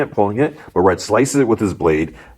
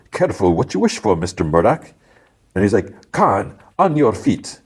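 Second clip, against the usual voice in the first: raised, deliberate villain voice; menacing gang boss; 3 semitones higher than usual. Retold or imitated. Gang boss grants the lawyer's wish, menacing. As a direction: order him up, slowing at the end.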